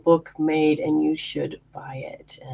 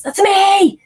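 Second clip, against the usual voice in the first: high, loud playful that's me; spirit mother voice; 7 dB louder than usual. Retold or imitated. Spirit mother revealing herself, high and playful. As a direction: pop it out as a cheerful ghost. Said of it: "She goes".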